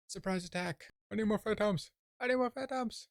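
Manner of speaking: high, frantic game yelp; excited battle cry. Real, not acted. Player crying out mid-attack on phantoms, excited battle cry.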